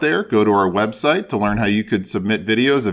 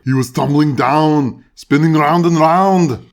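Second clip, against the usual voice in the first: louder, slowing on the spin; dramatic narration; 3 semitones higher, 5 dB louder than usual. A narrator's reading. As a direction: build it like a tumble. Dramatic story reading.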